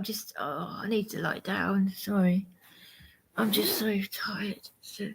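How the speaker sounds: weary unvoiced whisper; tired whisper. Real, not acted. Worn-out host telling viewers he's exhausted, whispered. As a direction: let it fade out on a tired breath. Exhausted streamer says he needs rest.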